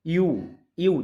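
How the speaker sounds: यू said alone as a clear "yoo" glide; pronunciation demo. Shown as a demonstration. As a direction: show the y-glide that starts यू. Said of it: "देखिए मुंह का shape भी देख". (यू का साफ़ उच्चारण, होंठ गोल करके)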